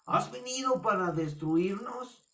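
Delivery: high-pitched acted demon voice; unclean spirit. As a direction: challenge him as a possessing spirit. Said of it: "el espíritu inmundo le dijo". (voz aguda de demonio)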